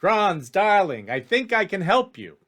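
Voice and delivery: smooth-talk them like a chummy fixer; eager elf making an offer; wheedling elf schemer. Acted. GM voices tall elf Ellis.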